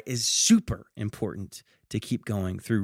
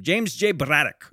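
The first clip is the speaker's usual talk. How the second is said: bad Irish accent; 3 semitones higher than usual. Shown as a demonstration. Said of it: "Sorry for the bad Irish accent".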